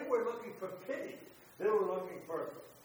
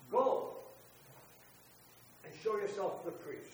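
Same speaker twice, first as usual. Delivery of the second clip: commanding call; 5 dB louder than usual. Acted. Preacher repeats Jesus' command.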